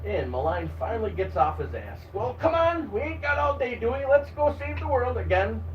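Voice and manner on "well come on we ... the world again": laughing to himself. Acted. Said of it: "he laughs to himself".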